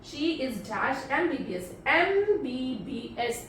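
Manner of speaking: "एमबीबीएस" drawn out slowly, each letter clear; slow demo. Shown as a demonstration. Teacher sounding out "एमबीबीएस" slowly for students. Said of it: "ध्यान से sound को सुनिए".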